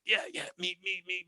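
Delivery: high, eager me-me-me; playful imitation of his eager self; eager volunteering. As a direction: bounce in your seat wanting to be picked.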